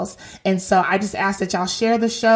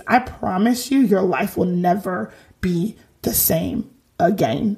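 put-on Chris Jericho accent. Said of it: "that was my Chris Jericho accent".

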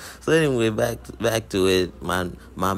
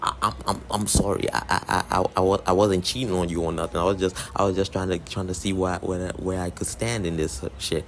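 flustered excuses. Retold or imitated. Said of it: "he's like".

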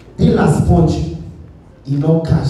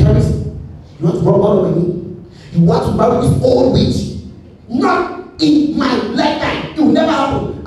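a hint of a stern father, pitched higher; mock disciplinarian dad scolding, raised pitch; strict father; 6 semitones higher than usual. Strict father refusing marriage.

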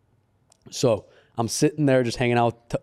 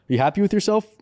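mild mock yell, pitched up; raised-pitch accusing questions; retold yelling; 8 semitones higher than usual. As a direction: imitate an accusing rant without real volume. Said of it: "he starts yelling at the girl".

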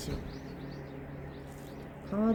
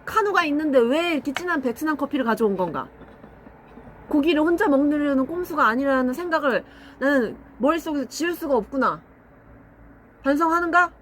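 lightly voiced haughty lord, archaic speech; stern lord voice; 5 semitones higher than usual. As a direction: play a pompous old lord scolding a servant. Mock lord scolding servant.

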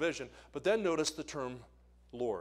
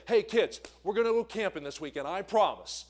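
cheerful parent promise; 4 semitones higher, 5 dB louder than usual. Retold or imitated. Parent promising kids camping.

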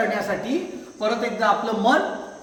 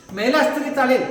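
cold retort, raised and sharp; angry; 3 semitones higher, 5 dB louder than usual. Acted. Angry master rejects the starving beggar, sharp raised retort. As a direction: snap back at the beggar. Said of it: "शेठ एकदम रागावला".

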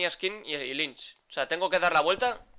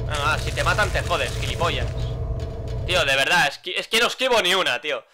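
raging shout, higher and louder; furious yelling; 3 semitones higher, 9 dB louder than usual. Real, not acted. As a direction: scream at the enemy in real fury. Repeatedly hit by an enemy.

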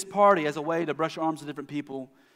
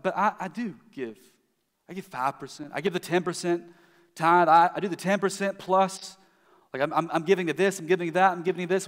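mock defensive, a bit louder; hammed-up self-justifying giver; 3 semitones higher, 5 dB louder than usual. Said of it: "they're like".

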